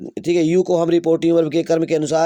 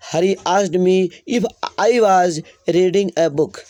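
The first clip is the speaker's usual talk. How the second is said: slow dictation; 2 semitones higher, much slower than usual. Shown as a demonstration. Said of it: "dictating the finished sentence".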